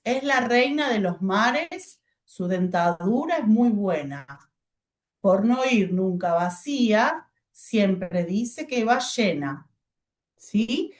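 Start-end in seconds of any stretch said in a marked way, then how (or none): 0.0-9.7 slow, pausing at each comma; reading with pauses. Shown as a demonstration. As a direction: pause clearly at every comma and period.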